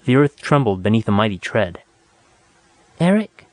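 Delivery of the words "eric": trembling. A narrator's reading. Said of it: "a thin voice trembled".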